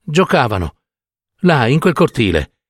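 halting, appalled delivery; horrified revelation. Acted. Old woman revealing the courtyard horror to doctor, halting. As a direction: let it out piece by piece, in dread.

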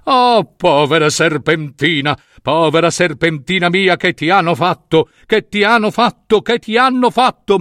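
repeated plaint climbing in pitch; acted storybook grief, rising to a high cry; despairing lament. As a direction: wail for a lost child, building. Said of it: "fu travolto dalla disperazione".

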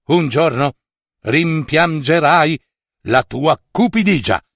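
a god foretelling regret; solemn warning; ominous god warning. Acted.

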